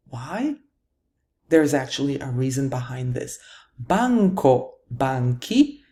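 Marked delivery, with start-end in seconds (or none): 3.8-5.8 "Banco, banchi" stressed on the first of two syllables; penultimate stress. Shown as a demonstration. Teacher showing where stress falls, penultimate stress on "Banco, banchi". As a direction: hit BAN in "Banco, banchi". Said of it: "stress falls on the penultimate syllable".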